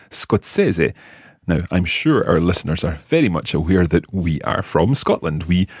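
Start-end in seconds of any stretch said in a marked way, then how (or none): 0.1-0.9 skots-SEH-zeh, ZZ as TS; Italian pronunciation. Shown as a demonstration. Teacher modelling scozzese for the learner. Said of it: "start with that word".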